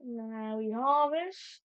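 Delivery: put-on slow Australian accent. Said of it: "Why did I get an Australian accent?".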